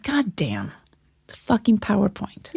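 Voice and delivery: soft whispered disbelief; whispered exasperation. Retold or imitated. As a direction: whisper it, fed up and amused. Retelling her own exasperated reaction.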